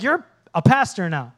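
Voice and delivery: accusing double-check; pointed disbelief. Retold or imitated. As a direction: imitate a skeptical old classmate. Lauren's pointed question, acted.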